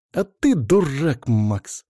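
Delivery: slow scolding grumble, stress on ты; grumbling. Acted. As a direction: grumble it, leaning on ты. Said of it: "проворчала девушка".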